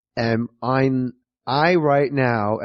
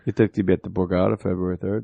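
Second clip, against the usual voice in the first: low, fast mock promo read for a show date; mock plug announcer; 7 semitones lower, 3 dB quieter, faster than usual. Plugging his own show dates to the host, as a mock promo voice. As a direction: slip in a playful plug like a radio ad. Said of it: "Enough with the plugs".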